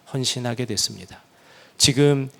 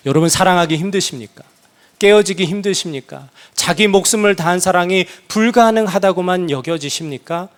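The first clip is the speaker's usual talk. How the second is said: louder, searching sermon questions; fervent preaching; 2 semitones higher, 5 dB louder than usual. Acted. Preacher challenging the congregation, louder and fervent. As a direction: press the church with each question.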